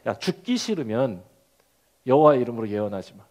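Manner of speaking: low, fast menacing threat; a low, quick threat from a bully; threatening thug. Shown as a demonstration. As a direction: growl it like a gangster warning him off. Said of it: "뉘앙스를 살려서 하면".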